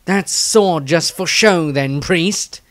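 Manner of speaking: slow, sardonic surgeon; Dieter mocking. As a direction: tease the priest, slowly. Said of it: "Dieter raised an eyebrow".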